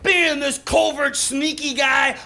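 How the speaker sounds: mock outraged yelling, slowing on the last words; angry shout at the TV. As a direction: shout down the TV like a left-wing hothead. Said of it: "and I'm going".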